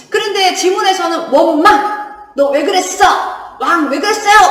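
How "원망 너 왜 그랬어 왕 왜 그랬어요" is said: mock demand for an explanation; louder, punchy acted challenge; confrontational. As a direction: take someone to task, hammed-up. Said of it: "이렇게 따지는 내용은 없습니다".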